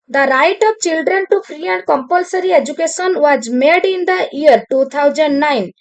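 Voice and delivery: slow, deliberate reading of a test question; exam question read slowly. Acted. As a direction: read it out word by word for the class. Reads exam question to class. (ଧୀରେ ଧୀରେ ପ୍ରଶ୍ନ ପଢ଼ିବା)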